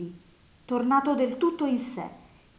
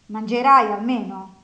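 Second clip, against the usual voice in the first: loud question; 9 dB louder than usual. A narrator's reading. Nastasia asks loudly about food.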